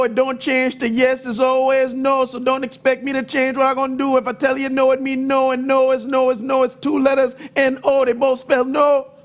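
a lightly voiced mom laying down the law; a hint of an unbending mother, no debate; firm mom. Mom telling Terry her no never turns to yes, lightly firm. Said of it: "She's like".

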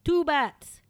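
rising, building vampire counting. Acted. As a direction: count bats like a hammy vampire. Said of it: "that was a movie quote".

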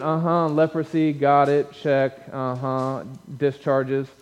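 offhand, level checklist mumble-through; casual skimming. Acted. Preacher acting a reader skimming weird chapters, casual and offhand. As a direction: tick items off without real interest. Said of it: "casually skim through it".

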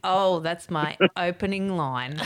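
slow line through a laugh; laughing reply. Retold or imitated. Comedian telling the footballer, slow with a laugh. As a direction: relish the comeback, laughing. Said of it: "And I went".

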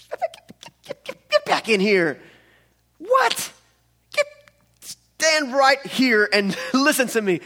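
loud, high, slow angry calling; stern summons. Acted. King calling the servant back in, angry and loud. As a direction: call him in like an angry parent.

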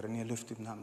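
soft, low, hushed coaxing; pastor's hushed urging. Retold or imitated. Pastor quietly urging René to raise his hand. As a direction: coax him quietly while eyes are closed.

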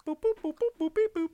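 high robot beeps and boops; toy robot voice. Pretend. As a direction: beep like a little toy droid. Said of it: "R two, shut up".

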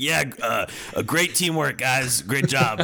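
mock awkward praise. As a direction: fake upbeat cover-up. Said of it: "he's like".

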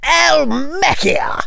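high, drawn-out cry of an incantation; shouted spell. A narrator's reading. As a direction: call out the spell high and slow. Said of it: "shouted Lee".

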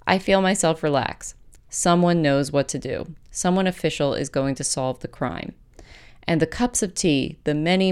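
measured, scripted personal essay read aloud; polished podcast essay narration with deliberate pauses. Acted. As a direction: read your essay out in composed, neatly phrased sentences. Resumes reading the essay.

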